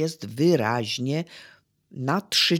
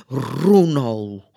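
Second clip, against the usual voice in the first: głośno wykrzyczane „runął”; rzuć słowo „runął” z całą siłą; dramatyczny okrzyk; 3 semitones lower, 8 dB louder than usual. Acted. Poem climax, repeated word. (wykładowca wykrzykuje kulminację wiersza, głośno)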